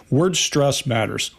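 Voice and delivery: slow, each word weighed; slow emphatic point. Real, not acted. Analyst making his key point to co-hosts, slow emphasis. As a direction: lay the phrase down slowly and firmly.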